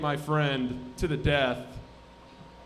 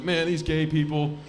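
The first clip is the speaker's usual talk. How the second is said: mock incredulous uncle; 2 semitones higher, 4 dB louder than usual. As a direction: act out a baffled, upset uncle. Uncle's upset reaction acted out.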